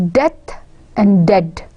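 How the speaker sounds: death and dead said slowly, each set apart; emphasis on the word. Shown as a demonstration. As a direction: give death and dead separate, deliberate weight. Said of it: "We are emphasizing on the first syllable".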